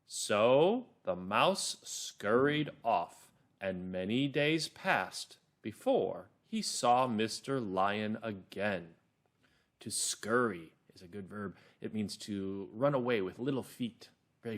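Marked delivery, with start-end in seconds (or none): 0.1-8.9 slow, measured storytelling; calm, clear narrator. Shown as a demonstration. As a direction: read it slowly to children, word by word. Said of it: "Calm and clear".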